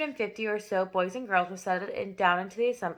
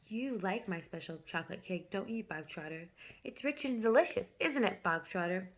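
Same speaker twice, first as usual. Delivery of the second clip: softer, friendly; 6 dB quieter than usual. A narrator's reading. Headmistress leaning in to coax the boy, falsely sweet. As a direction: purr it sweetly like a trap. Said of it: "softer and quieter, and more friendly".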